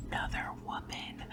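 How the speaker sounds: hushed, voiceless gossip whisper. Real, not acted. Reader sharing a rumor with viewers, whispered. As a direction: drop into a whisper for the secret.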